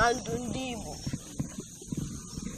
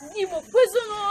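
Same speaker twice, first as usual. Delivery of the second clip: rallying call; 8 semitones higher than usual. Real, not acted. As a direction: summon the crowd's response. Elder rallies crowd in call.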